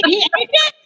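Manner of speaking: can't believe it; disbelieving. Retold or imitated.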